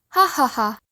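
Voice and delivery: mock laugh read out in words; hammed-up spoken laughter; bursting into laughter. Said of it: "Bursting into laughter".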